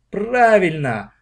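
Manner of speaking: a loud, slow, happy cheer; joyful. A narrator's reading. Classmates welcome the plan, joyful. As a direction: cheer it out gladly. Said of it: "обрадовались одноклассники".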